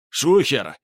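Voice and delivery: loud urgent warning yell; alarmed shout. Acted. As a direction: shout to run, panicked. Крик тревоги при облаве. (тревожный крик)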